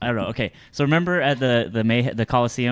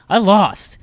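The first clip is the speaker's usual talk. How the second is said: higher, louder retold complaint; obnoxious announcement; 6 semitones higher, 6 dB louder than usual. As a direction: announce it obnoxiously for everyone nearby. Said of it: "I was being just really obnoxious".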